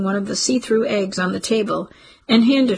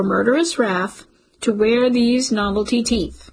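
mock solemn pledge; 2 semitones higher than usual. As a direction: play the pompous oath-taker for laughs.

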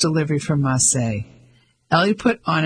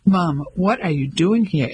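level, disapproving demand with weight on "doing"; a son confronting his mother; stern questioning; critical. Acted.

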